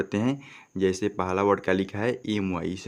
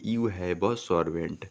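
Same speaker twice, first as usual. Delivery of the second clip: slow and clear, word by word; slow teaching read; slow model sentence; much slower than usual. Shown as a demonstration. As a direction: model the sentence slowly for students. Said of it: "तो क्या बोलेंगे".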